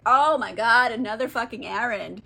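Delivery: loud fed-up groan; exasperated outburst. Retold or imitated. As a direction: blurt it out, fed up. Exasperated Odysseus quote.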